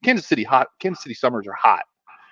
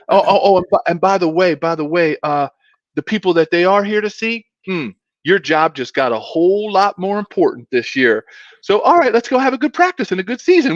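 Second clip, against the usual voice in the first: higher North Carolina coach impression; North Carolina accent; 5 semitones higher than usual. Coach warning players about their new star, imitated North Carolina accent. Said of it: "I'll try to emulate".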